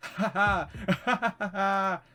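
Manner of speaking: high, loud "ha ha"; acted laughing fit; burst of laughter. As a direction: let the laugh break out. Reads laugh aloud.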